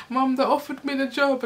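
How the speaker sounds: high, mock-tearful telling Mum; tearful imitation. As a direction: imitate breaking the news through tears. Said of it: "I just burst out crying".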